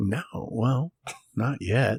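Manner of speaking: eerie, creepy, hushed teasing half-whisper. Answering the other speaker's question about being killed, half-whispered. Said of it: "Why'd I have to whisper that?".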